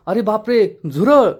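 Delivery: hammed-up cry of alarm; mock alarm. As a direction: fake a sudden scare to tease her. Husband fakes a cockroach scare.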